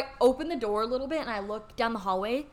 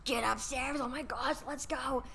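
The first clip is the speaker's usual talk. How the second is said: retold under-the-breath scolding, softer; hushed urging; 9 dB quieter than usual. Friend herding Santana away from front desk, hushed and exasperated.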